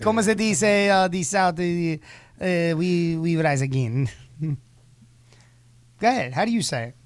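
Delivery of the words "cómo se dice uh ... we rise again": halting, exaggerated Spanish accent; mock Spanish accent. Imitating Jose saying the line, mock Spanish accent. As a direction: stumble through it in a put-on Spanish accent. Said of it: "It's gonna be too Spanish".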